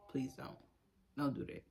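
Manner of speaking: quiet pleading please don't; soft plea. Real, not acted. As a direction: let it fade to a hush. Repeated pleading, fading.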